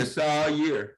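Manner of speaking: slow, drawn-out mock fan boast; Cowboys fan line. Mocking Cowboys fans and their favorite line, slow. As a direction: drag it out like a hopeful fan. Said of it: "You know their favorite line?".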